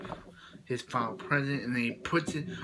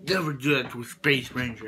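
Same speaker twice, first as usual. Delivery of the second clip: indignant Space Ranger; 5 dB louder than usual. Retold or imitated. Buzz's helmet lifted.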